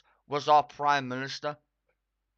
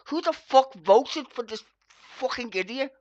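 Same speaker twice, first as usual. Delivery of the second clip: loud, high mock outrage; audience outcry; 8 semitones higher, 7 dB louder than usual. Vlogger voicing the studio audience to viewers, loud mock outrage. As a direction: hurl it like a disgusted crowd. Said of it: "Even the audience in fucking Question Time goes".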